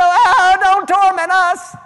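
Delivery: loud, high wailing plea; begging demons. Acted. Preacher voicing demons begging Jesus, loud high wail.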